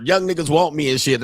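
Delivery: normal talking voice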